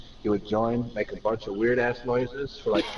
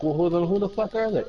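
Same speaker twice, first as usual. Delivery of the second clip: mock exasperated; 8 semitones higher, 4 dB louder than usual. Retold argument with Tom.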